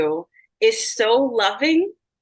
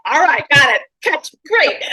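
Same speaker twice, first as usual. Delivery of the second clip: quick charades reply; 5 semitones higher, 6 dB louder than usual. Retold or imitated. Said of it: "I'm like".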